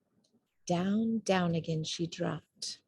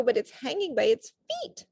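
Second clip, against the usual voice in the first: chirpy; 4 semitones higher than usual. A narrator's reading. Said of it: "chirped Flitter".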